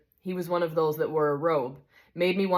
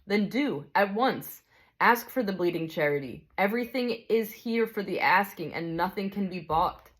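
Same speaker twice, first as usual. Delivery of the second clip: gentle bright spirit; 3 semitones higher than usual. Acted. Bright spirit calmly answers the big ghost, kindly.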